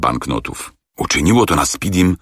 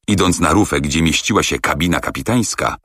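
ordinary delivery

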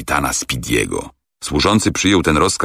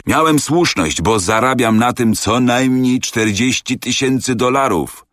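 triumphant exclamation; 7 semitones higher than usual. A narrator's reading. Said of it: "wykrzyknął Andrew Speedy".

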